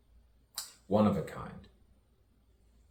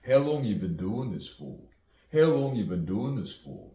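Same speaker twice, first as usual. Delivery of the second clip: pushy interviewer; 5 semitones higher, 6 dB louder than usual. Acted. Repeated questioning, mock interviewer.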